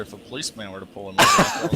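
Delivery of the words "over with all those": high squeal, rushed; squeaky high joke voice. Pretend. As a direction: jump way up high and fast. Joke voice mid sentence.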